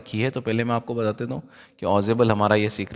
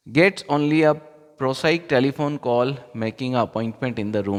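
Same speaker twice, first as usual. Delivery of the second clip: slow reading aloud; much slower than usual. Acted. Reads English passage slowly.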